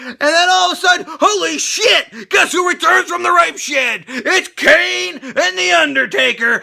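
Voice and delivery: high-pitched hyped announcement; excited reveal. Real, not acted. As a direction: build up a shock return, stretching the big words. Hyped retelling of surprise return.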